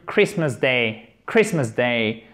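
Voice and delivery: Christmas with silent T, stress up front; silent T, first-syllable stress. Shown as a demonstration. Teacher modelling for learners, Christmas with silent T and first-syllable stress. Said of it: "l'accent tonique sur le première syllabe".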